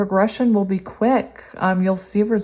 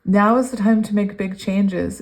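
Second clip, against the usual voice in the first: excited; 4 dB louder than usual. Real, not acted. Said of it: "hear the excitement in my voice".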